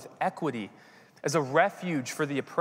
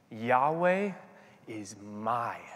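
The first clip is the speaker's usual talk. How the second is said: Yahweh said clearly, the rest drops to a whisper on shepherd; fading to a whisper; 3 semitones lower, 4 dB quieter, much slower than usual. Shown as a demonstration. Pastor savouring the divine name before the congregation, fading to a whisper. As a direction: let Yahweh ring, then whisper shepherd.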